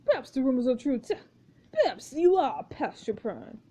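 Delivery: lightly voiced pompous director; stilted, formal notes to the cast; a hint of an imperious auteur; exacting film director. Plays the director Marcus.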